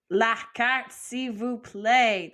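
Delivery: La carte, s'il vous plaît said slowly in French; slow, clear French: La carte, s'il vous plaît; French model phrase. Shown as a demonstration. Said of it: "how would you say".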